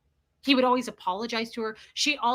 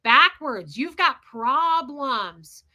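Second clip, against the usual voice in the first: exasperated; 5 dB louder, much slower than usual. Retold or imitated. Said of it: "I was like".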